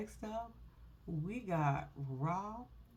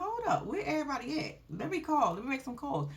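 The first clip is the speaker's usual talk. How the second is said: imitating the wife; 5 semitones higher than usual. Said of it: "they're like".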